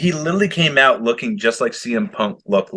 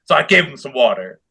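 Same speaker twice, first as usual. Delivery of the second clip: deadpan. Retold or imitated. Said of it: "Just stone cold face, no remorse".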